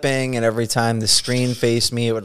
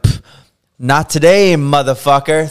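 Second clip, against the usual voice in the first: defiant curse; 3 semitones higher, 5 dB louder than usual. Retold or imitated. Tattoo artist dismissing the pesky caller, defiant jeer. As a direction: toss off the caller with a cocky jeer. Throwing phone, cursing caller.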